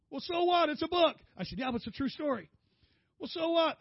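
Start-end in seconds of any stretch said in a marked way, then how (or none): 0.1-1.2 high, loud mock exasperation; exasperated wife. Wife scoffs at her husband crying over a book, exasperated. 1.6-2.5 mock tearful protest. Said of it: "I started crying". 3.2-3.8 high, loud mock exasperation; exasperated wife. Wife scoffs at her husband crying over a book, exasperated.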